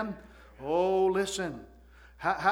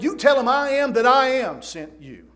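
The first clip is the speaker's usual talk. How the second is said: raised, loud preaching declaration; emphatic proclamation; 3 semitones higher, 5 dB louder than usual. Retold or imitated. Preacher quotes God's answer to Moses, emphatic proclamation.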